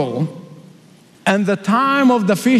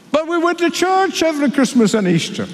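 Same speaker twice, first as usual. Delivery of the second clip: pleading foolish ones; 7 semitones higher than usual. Acted.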